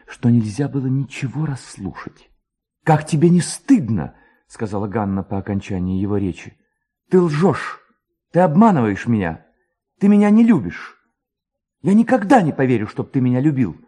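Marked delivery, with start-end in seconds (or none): 2.8-4.2 put-on higher, louder girl's reproach; a young woman scolding, voice lifted; reproachful girl. A narrator's reading. Ganna reproaches the stranger. 7.1-13.8 put-on much higher, louder girl's outburst of hurt; hurt accusing girl. A narrator's reading. Ganna accuses him of lying.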